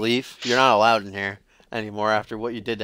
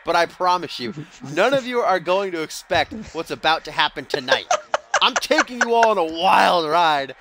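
higher-pitched hammed-up Russian accent heel promo; mock Russian accent; 3 semitones higher than usual. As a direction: boast like a Russian villain wrestler, hammed up. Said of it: "should I do that Russian accent?".

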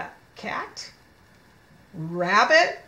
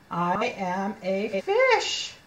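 slow, separated words; slow model reading; slower than usual. Shown as a demonstration. Teacher reading fish page to children, slow word-by-word. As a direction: read word by word for a beginner.

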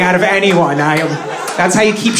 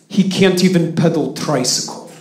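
put-on Russian dad accent; 3 semitones lower, 3 dB quieter than usual. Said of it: "my dad was like".

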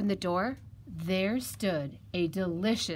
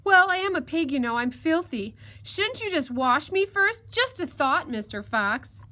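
high, louder little piglet voice; crafty piglet, coaxing; 6 semitones higher, 6 dB louder than usual. Acted. Piglet talks the fox into a bath, coaxing. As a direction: suggest it innocently in a high piglet voice.

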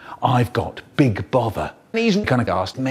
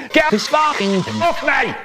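desperate shout; 11 semitones higher than usual. Acted. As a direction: scream for help while being grabbed. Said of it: "someone shouting".

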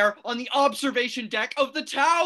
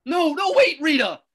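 urgent call; 6 dB louder than usual. Acted. Panicked man stops friend.

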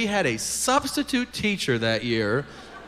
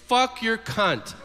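drawn-out, raised-pitch outburst; tic outburst; 6 semitones higher, slower than usual. Acted. Kid with Tourette's in church, drawn-out outburst. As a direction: blurt it out slowly and high.

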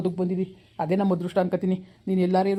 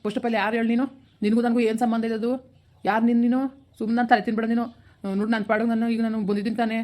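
angry; 3 semitones higher than usual. Acted. Akash snaps at Pooja on phone.

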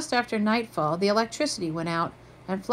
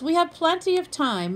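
reassuring; 9 semitones higher, 3 dB louder than usual. A narrator's reading. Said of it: "Mom reassured them".

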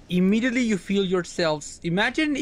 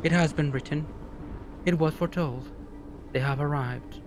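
calm, tranquil voice, a bit softer; 3 semitones lower, 4 dB quieter than usual. Acted. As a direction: soothe the other gods, unhurried and serene. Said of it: "calm voice says".

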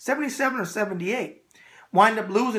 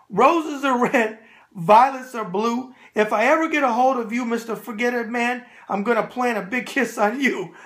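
sing-song poem reading; 3 semitones higher than usual. Shown as a demonstration. Host reading a viewer's joke poem aloud, sing-song. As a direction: recite it like a mock valentine verse. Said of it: "but I'm gonna read it".

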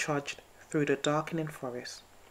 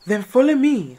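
smiling; 9 semitones higher, 13 dB louder than usual. Acted. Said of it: "smiled Owl".

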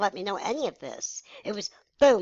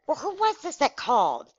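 imitating an irate mother, higher pitch; higher, indignant retold mom; livid mom; 7 semitones higher than usual. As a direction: demand it as an outraged mom. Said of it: "my mom was livid".

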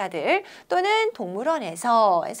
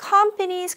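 "companies" with the stress on COM, higher there; first syllable stress; 8 semitones higher, much slower than usual. Shown as a demonstration. Teacher showing students stress on the first syllable of "companies". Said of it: "강세 어디에 들어가는지 보이시죠?".

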